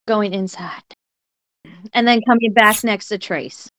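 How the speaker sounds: story narration. Acted. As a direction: paint the attack for the listeners. Player narrates her character's attack.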